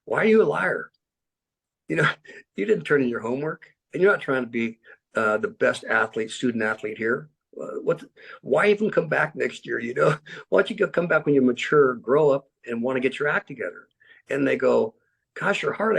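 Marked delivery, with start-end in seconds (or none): 0.1-13.9 raised, pushy scolding, a bit faster; telling lazy players to grow up; stern coach rebuke. Retold or imitated. Coach scolding his football players. 15.3-16.0 quoted protest pitched well up; mock player protest. Players react to his rebuke.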